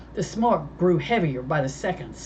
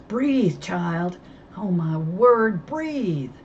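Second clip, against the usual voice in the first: anxious grandmother; 2 semitones higher, 4 dB louder, much slower than usual. Acted. Grandmother tending the boy.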